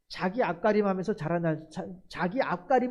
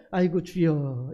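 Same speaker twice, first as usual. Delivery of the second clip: sighing prayer; 5 semitones lower, slower than usual. Retold or imitated. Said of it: "예수 믿는 사람들은 어떻게 해요?".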